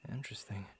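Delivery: softly whispered interest; a hushed, curious aside; intrigued whisper. Acted. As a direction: whisper it to yourself. Intrigued aside about half siren.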